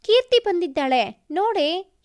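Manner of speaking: mother calls her daughter from another room; calling out loudly. Acted. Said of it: "ಅಮ್ಮ ಜೋರಾಗಿ". (ಜೋರಾಗಿ ಕೂಗಿ ಕರೆಯುವುದು)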